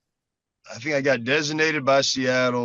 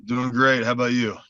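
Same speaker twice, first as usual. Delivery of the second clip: unenthusiastic. Real, not acted. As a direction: answer with very little enthusiasm. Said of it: "don't be so enthusiastic on our show".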